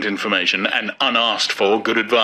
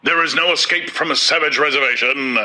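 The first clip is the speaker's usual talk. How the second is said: solemn; 6 semitones higher than usual. A narrator's reading.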